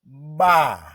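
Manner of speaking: ordinary talk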